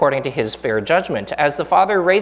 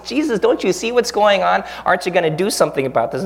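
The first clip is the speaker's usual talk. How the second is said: higher, mock-aggrieved plea that speeds up at the end; indignant complaint; 3 semitones higher than usual. A wronged believer to Jesus, complaining higher and aggrieved. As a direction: whine that it isn't fair, then rush the question. Voicing an injured complaint to God.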